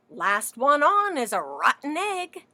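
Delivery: lightly voiced bossy hen; chicken voice.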